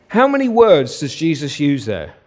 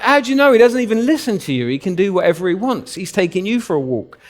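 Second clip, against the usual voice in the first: incredulous; 5 semitones higher than usual. Retold or imitated. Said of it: "And you're like".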